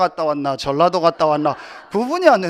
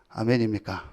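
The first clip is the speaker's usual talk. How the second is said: usual speaking voice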